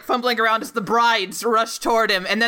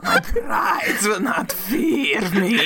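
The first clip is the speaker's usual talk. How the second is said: mock Dracula; slower than usual. Echoing Dracula's line.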